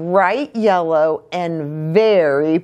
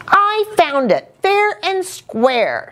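storybook shout, more pitch than volume; mild shout. A narrator's reading. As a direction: insist on your claim, voice raised high. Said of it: "shouted Little Blue".

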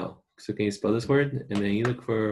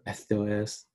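Spain Spanish accent. Shown as a demonstration.

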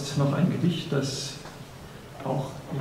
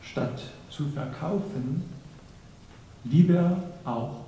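poem recitation; slower than usual. Acted. Reciter presents a poem on love and achievement, deliberate poem recitation. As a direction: recite with weighty pauses between phrases.

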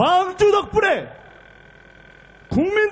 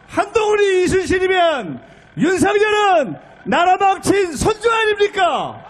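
shouted rhetorical question; 2 semitones higher than usual. Real, not acted.

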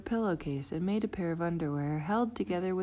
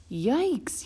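yelling yikes; 6 semitones higher, 4 dB louder than usual. Acted. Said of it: "yelled Froggy".

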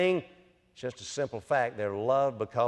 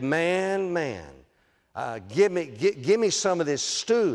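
lightly voiced hungry Esau; 4 semitones higher than usual. Esau begging his brother for stew, mock urgent. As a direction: beg your brother for food. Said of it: "he said to his brother".

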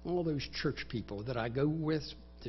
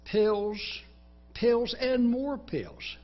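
high, loud, pushy sales pitch; tempting voice; 8 semitones higher, 5 dB louder, much slower than usual. Acted. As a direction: hammer it like a voice that won't quit. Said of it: "Then there's the voice".

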